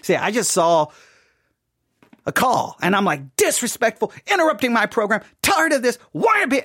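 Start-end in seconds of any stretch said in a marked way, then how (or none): 3.3-6.6 re-enacted complaints, climbing higher with each one; indignant rant. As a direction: build from annoyed to high exasperation. Re-enacts his angry rant at caller.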